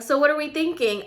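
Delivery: acting clueless. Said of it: "I'm over here like a dum-dum".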